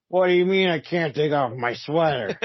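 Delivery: 酔ったロジャースさんの軽いものまね; drunk Mister Rogers. Retold or imitated. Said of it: "the drunk Mister Rogers tape".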